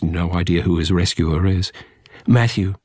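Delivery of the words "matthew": tender. Acted. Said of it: "tenderly, gently".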